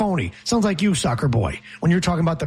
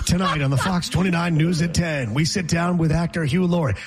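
mock local-news promo read. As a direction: announce tonight's interview like a TV anchor.

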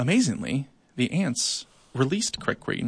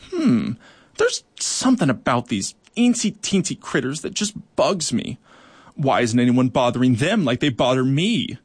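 grumbling cockroach; 3 dB louder than usual. Acted. Crickwing grumbling about the ants.

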